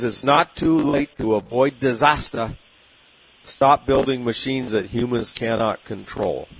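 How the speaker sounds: a light Vermont Bernie Sanders accent, lightly voiced. Host quoting Bernie's letter to AI bosses, light Bernie Sanders accent. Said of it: "I like your Bernie, Bernie Sanders accent".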